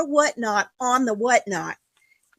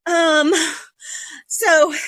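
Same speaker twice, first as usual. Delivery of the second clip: winded, catching breath. Real, not acted. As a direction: talk while short of breath. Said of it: "I gotta catch my breath".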